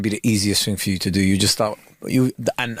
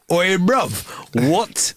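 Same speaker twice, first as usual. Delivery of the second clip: mock call-out; 7 semitones higher, much slower than usual. Plays the stranger hailing him.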